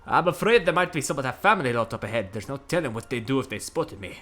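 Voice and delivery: put-on lightly done Scottish accent for a worried man. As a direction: read it as a nervous Scot. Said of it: "Is he doing a Scottish bit?".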